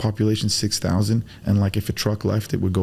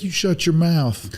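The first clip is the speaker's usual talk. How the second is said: mock stern rebuke; 6 semitones higher, slower than usual. Imagined defender scolding bigot.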